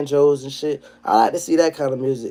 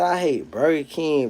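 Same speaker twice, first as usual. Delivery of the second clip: slow, softer disbelieving repeat; slow mocking quote, softer; 4 dB quieter than usual. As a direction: drag out the quote quieter in disbelief. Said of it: "that boy say".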